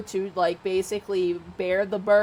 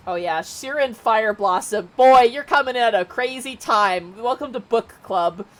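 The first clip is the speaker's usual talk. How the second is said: excited greeting; 3 semitones higher, 6 dB louder than usual. Real, not acted. Streamer greets new follower excitedly.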